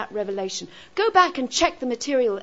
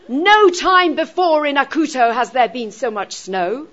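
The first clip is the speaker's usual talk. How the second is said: louder, weighty "No time" at the front; stress on No time; 6 dB louder than usual. Shown as a demonstration. Teacher giving an awkward example, stress on "No time". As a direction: lean hard on "No time", declaiming the sentence. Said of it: "putting the negative emphasis right".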